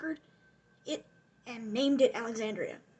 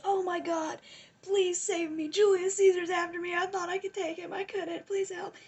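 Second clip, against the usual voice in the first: higher-pitched, hammed-up begging for rescue; mock panicked pleading; 5 semitones higher, 3 dB louder than usual. Retold plea for rescue.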